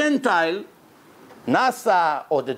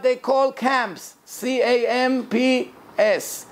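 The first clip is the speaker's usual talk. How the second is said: raised pitch, terms spaced out slowly; careful slow reading; 7 semitones higher than usual. Real, not acted. Teacher matching Gemara terms to English words, reading slowly. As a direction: read out each unfamiliar English term slowly and carefully. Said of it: "I'll try to read it slow".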